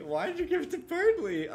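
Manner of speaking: put-on high timid girl voice. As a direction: ask it like a shy girl. Reads two characters' versions of line.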